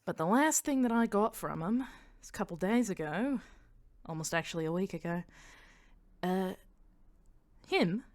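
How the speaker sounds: Australian storyteller building to a point; Australian accent. Acted. Mania reporting what the spies saw, Australian accent. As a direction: tell it in an Australian voice. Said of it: "that she turned Australian".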